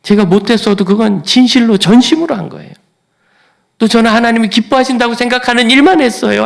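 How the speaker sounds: high, loud crying plea; tearful plea. Retold or imitated. Hezekiah crying out to God, high and loud. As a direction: beg through tears. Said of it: "하고 웁니다".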